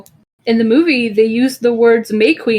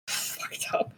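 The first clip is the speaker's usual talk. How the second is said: slow hushed whisper; 18 dB quieter than usual. Real, not acted. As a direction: breathe it out, low and slow. Grim trivia aside.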